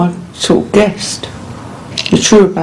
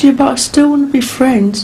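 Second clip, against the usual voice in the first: mocking boyfriend; 6 semitones higher than usual. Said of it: "He said".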